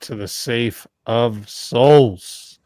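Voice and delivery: slow dramatic fight announcer. Acted. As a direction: draw out each phrase like a ring announcer. Host's dramatic show announcement.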